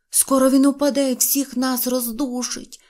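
ordinary delivery

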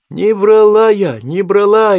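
high desperate scream, slow; истошный крик. A narrator's reading. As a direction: wail it out in despair. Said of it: "Истошный крик". (истошный отчаянный крик)

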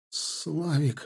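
soft, high, drawn-out moan. A narrator's reading. Wounded man groans to his comrade, moaning. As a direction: groan the name out weakly. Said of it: "вдруг застонал он".

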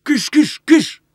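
high, loud shooing cries; shooing shout. Acted. A man shoos the passing girls away, shouting. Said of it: "махає на них руками і кричить".

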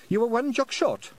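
high squeaky Scottish pixie; tiny Scots warrior, chirpy and high; Feegle voice. Acted. Feegle adds helpfully.

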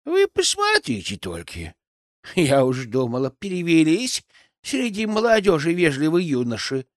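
a lightly voiced, pleased old granny; old witch secretly flattered; pleased old crone. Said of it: "в её голосе проскользнули нотки довольства".

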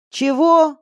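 high, loud shout over the noise; loud shouted question; shouting back. A narrator's reading. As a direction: yell it back through the roaring wind. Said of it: "закричала я в ответ".

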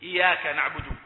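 إياك with a single short y; ya without doubling. Shown as a demonstration. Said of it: "لأنه أحال معنى".

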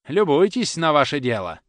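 loud, high rebuke; bitter reproach. Acted. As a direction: throw the blame at him. Tutor reproaches boy.

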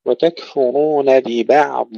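slow recitation, the final ض of ببعض held long; lengthened dad. Shown as a demonstration. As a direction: stretch the dad closing ببعض without a bounce. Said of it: "ننتبه إلى استطالة الضاد". (وتكفرون ببعض باستطالة الضاد)

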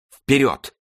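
high-pitched rallying cry; commanding shout. A narrator's reading. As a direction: cry out, carried away by battle. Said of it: "крикнул тоже король". (воодушевлённый боевой клич)

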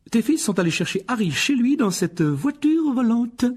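high-pitched indignant outburst; exclaiming. Acted. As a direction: cry out the accusation. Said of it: "s'exclama madame Wesley". (s'exclamer, voix aiguë)

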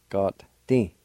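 God, ti said together at normal pace; Cherokee word. Shown as a demonstration. Teacher giving the whole Cherokee word for button. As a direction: run God and ti into one word. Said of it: "It's pronounced like this".

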